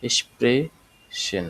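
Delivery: "এক্সপ্রেশন" as esh-pre-shen, drawn out slowly; sh pronunciation. Shown as a demonstration. Teacher modelling the word for learners, "এক্সপ্রেশন" slow with sh sounds. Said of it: "অষ্টআশির উচ্চারণটা চলে আসছে".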